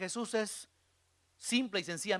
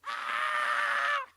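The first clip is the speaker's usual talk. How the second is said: very high sustained scream; demonstrated long shriek; scream of fear. Shown as a demonstration. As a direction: scream out in terror. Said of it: "Imagínense esos gritos".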